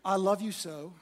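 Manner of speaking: hammed-up loving reply; a pretend perfect husband, lightly sweet; mock tender husband. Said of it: "I wish I could tell you that what I did was said".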